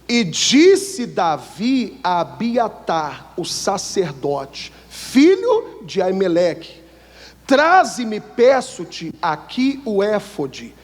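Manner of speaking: slow, drawn-out pulpit reading of the verse; solemn scripture reading. Acted. Preacher reading the verse to the congregation, slow and solemn. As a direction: read the holy words slowly and grandly.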